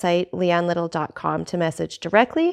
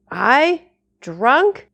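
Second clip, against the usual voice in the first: put-on indignant drunk; 5 semitones higher, 4 dB louder than usual. Drunk man protests being drunk.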